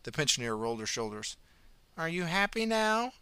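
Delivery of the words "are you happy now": put-on high, sweet old lady voice; old woman. A narrator's reading. Old pensioner cheerfully greeting the ambulance officer, high and sweet. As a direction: chirp it like a kindly granny.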